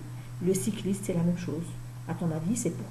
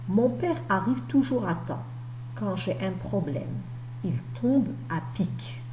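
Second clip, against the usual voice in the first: careful reading aloud. Acted. Teacher reads a scene's bubble to pupils, careful reading aloud.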